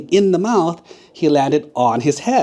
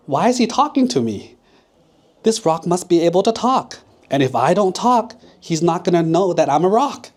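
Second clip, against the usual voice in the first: worried thinking; 5 semitones higher, 3 dB louder than usual. Acted. Crocodile thinks in a panic.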